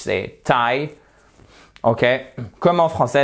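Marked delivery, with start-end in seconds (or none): 0.4-0.9 "Thai" with a plain T, no th; silent H. Shown as a demonstration. Teacher showing "Thai" with the H silent. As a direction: say "Thai" starting like "tie". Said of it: "on n'a pas de T H".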